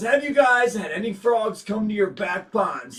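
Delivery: ordinary talk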